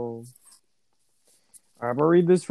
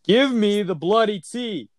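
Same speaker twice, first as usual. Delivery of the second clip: slow, careful fake British "Give me the bloody tea"; an American trying a British "bloody"; bad British accent; 3 semitones higher, slower than usual. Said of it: "that's terrifying".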